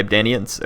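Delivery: Ebdanians as eb-DAY-nee-uns; Ebdanians, stressed on DAY; first pronunciation. Real, not acted. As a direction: say Ebdanians with a long AY in the middle. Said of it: "however you pronounced it".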